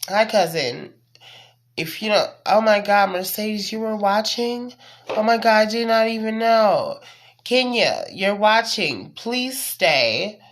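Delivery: high, loud, gushing hello; thrilled to spot viewers watching; excited greeting. Real, not acted. Greeting cousin watching the stream.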